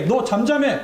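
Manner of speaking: high-pitched mock rebuke; scolding. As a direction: hush someone with a mildly acted scolding. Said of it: "라고 막 꾸짖은 거죠". (꾸짖는 흉내로 높게)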